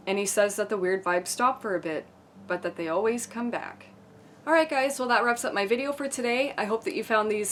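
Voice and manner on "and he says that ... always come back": measured spooky-story read; storyteller reading creepy anecdotes aloud; scary story narration. A narrator's reading. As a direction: narrate a creepy true tale, measured and controlled. Reads scary stories aloud.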